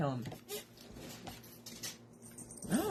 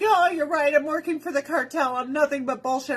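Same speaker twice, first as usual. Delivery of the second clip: lightly voiced cartel woman; 5 semitones higher, 3 dB louder than usual. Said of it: "and she'd be like".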